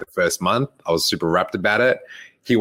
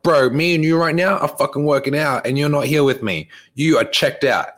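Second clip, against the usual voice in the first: retold annoyed call-out, pitched higher; pissed off; 7 semitones higher than usual. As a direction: scold a checked-out training partner. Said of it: "I was pissed off".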